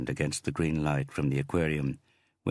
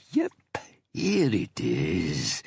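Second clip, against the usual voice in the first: snarling; 2 semitones higher, much slower than usual. Acted. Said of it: "The blond man snarled".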